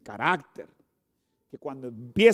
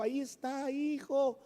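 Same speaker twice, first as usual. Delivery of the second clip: mock loving mother; 7 semitones higher, 7 dB quieter than usual. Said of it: "le grita amorosamente".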